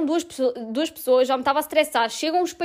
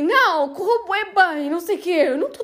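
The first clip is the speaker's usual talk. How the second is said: trembling; 5 semitones higher than usual. Retold or imitated. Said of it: "Eu tava a tremer bué".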